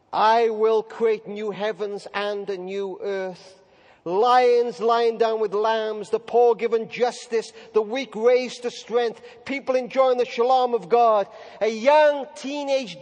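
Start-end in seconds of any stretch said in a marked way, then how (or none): 0.1-11.3 slow, measured prophecy read aloud; solemn scripture reading. Acted. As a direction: lay each image down slowly and solemnly. Preacher reads prophecy slowly.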